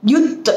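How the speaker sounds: Yut with a stopped, held t. Shown as a demonstration. Teacher showing students the hold, Yut with held t. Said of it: "Hold the it".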